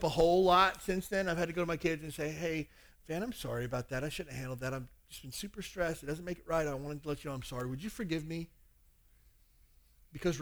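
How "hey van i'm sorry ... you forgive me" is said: sincere apology. Retold or imitated. Father apologizes to his kid.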